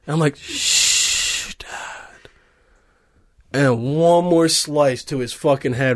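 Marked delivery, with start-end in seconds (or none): 0.4-2.3 whispered shush. Acted. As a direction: hush him in a whisper. Son shushing father.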